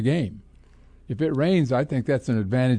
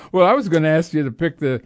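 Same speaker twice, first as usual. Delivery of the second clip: talking through leftover laughter; laughing; 4 semitones higher than usual. Real, not acted. Host still laughing as he teases his co-host. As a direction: let the laugh spill into the words.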